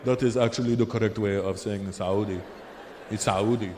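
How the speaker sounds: low mock Arab accent. Local man explains correct pronunciation.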